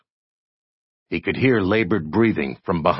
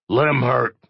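rumble; 7 semitones higher, 3 dB louder than usual. A narrator's reading. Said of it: "the oddity rumbled".

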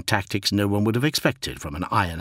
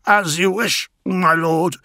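raised, eager servant's voice; courtier voice; 10 semitones higher, 5 dB louder than usual. Acted. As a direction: speak up as a devoted courtier.

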